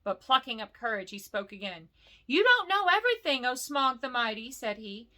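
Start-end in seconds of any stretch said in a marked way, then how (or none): 2.3-4.5 higher, nervous hobbit voice; Bilbo speaking. Acted. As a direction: brave little hobbit pushing past his fear. Bilbo addressing the dragon.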